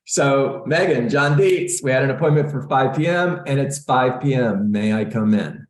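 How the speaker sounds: upbeat and energetic. Shown as a demonstration. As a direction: say it with a smile and lift. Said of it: "Just like that".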